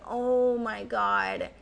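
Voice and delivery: very soft, slow, drawn-out lament; wistful groan. Retold or imitated. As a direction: sigh it out in slow regret. Regret at missed chance.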